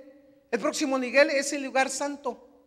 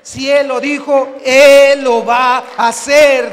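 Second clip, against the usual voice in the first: growing louder into a full shout; building preacher shout; 15 dB louder, slower than usual. Real, not acted. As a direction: build each line till you're shouting. Crowd shout. (predicador que sube hasta gritar)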